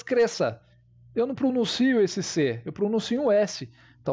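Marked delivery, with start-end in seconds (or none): 0.0-0.6 "cresça" in one piece, one S sound; direct pronunciation. Shown as a demonstration. Teacher repeating the word without dividing it, direct pronunciation. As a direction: say "cresça" straight through without dividing syllables. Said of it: "se eu falar direto, sem dividir por sílabas".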